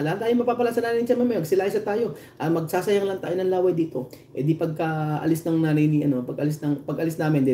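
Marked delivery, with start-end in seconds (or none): 0.0-4.1 higher, fast, fed-up dismissal; mock fed-up official. Official telling the crowd to leave, fast fed-up tone. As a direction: rush it out like you're done wasting time. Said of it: "Sabi niya".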